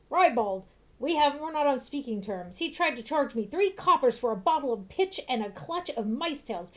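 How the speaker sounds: a hint of an indignant old grouch; grumpy old man. Old man complaining about the shopkeeper, mildly indignant. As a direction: huff about the shopkeeper's prices.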